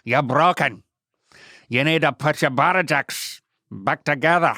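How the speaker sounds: mock Irish teasing; hammed-up Irish banter; playful Irish accent. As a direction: tease in a put-on Irish accent. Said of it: "You gotta use an Irish accent".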